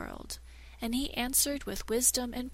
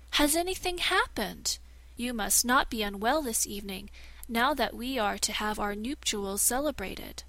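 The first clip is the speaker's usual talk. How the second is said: anxious princess. Acted. Princess worried for groom.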